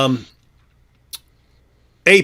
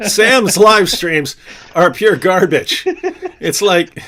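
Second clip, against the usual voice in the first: laughing; 3 semitones higher, 3 dB louder, much slower than usual. Real, not acted. Laughing at bad streams.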